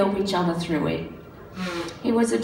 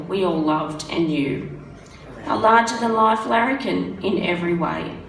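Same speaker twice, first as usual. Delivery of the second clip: memorial poem reading. Acted. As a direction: read the tribute poem with care.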